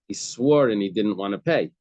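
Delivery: SWORE punched loud, the rest falling away; stress on SWORE. Shown as a demonstration. Teacher giving Rava's emphasis, stress on swore. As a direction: hit swore hard. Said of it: "So Rava's emphasis was".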